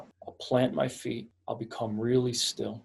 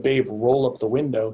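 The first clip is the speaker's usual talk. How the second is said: loud, firm "roll up the window" as a command; commanding order; 6 dB louder than usual. Shown as a demonstration. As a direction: give the order like an alpha in charge. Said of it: "if she said".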